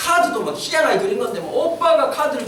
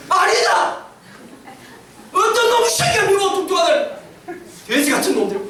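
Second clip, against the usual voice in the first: higher mock-furious kid yelling back; child's angry retort; 4 semitones higher than usual. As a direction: voice the daughter snapping at bullies. Daughter angrily defends father.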